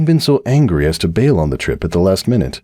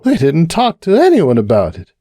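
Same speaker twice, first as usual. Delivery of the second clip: high, tipsy, worried mare voice; Cupcake confiding; 10 semitones higher, 3 dB louder than usual. Acted. Cupcake confiding her fears to the bartender, high and worried. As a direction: pour out the worry, a little tipsy.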